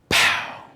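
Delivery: sudden popped gunshot noise; imitated starting gun. Coach retelling the relay start, imitated gunshot. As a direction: fire it off like a pistol crack.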